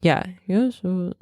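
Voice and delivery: attempted German accent, slowed. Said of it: "It's sounding Russian".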